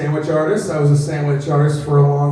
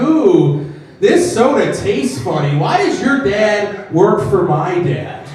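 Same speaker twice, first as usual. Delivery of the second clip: put-on rich child; 5 semitones higher, 3 dB louder than usual. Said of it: "They're gonna be like".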